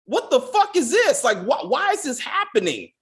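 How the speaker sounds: high, baffled disbelief; what the hell am I watching; baffled outburst. Retold or imitated. Retelling her own reaction to the show, baffled and high. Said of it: "And I'm like".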